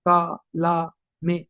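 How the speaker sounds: example syllables said one by one; separate syllables. Shown as a demonstration. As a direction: sound out का, ला, में as separate syllables. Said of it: "syllable को represent करता था, जैसे". (का, ला, में अलग-अलग अक्षरों में)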